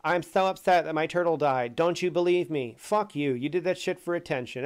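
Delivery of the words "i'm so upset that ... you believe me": mock whiny excuse, louder; mocking the turtle guy's whiny excuse; mocking whine. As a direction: sneer his excuse back at him. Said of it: "his excuse for it was so fucking shitty".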